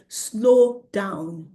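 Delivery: drawn-out, deliberate instruction; slowed down. Retold or imitated. Telling children to slow down, drawn out. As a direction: stretch both words as if slowing a child. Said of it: "almost like slowing".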